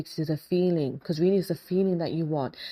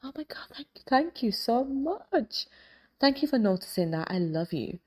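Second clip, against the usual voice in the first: gushing thanks. Pretend. Replying to a friend's jab with exaggerated delight. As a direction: overdo the delight, sweetly. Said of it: "When your friend says to you".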